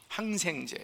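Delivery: usual speaking voice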